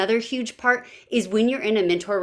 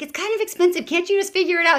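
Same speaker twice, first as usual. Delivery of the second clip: mock whiny teen; 10 semitones higher, faster than usual. Teen self quoted balking at cost.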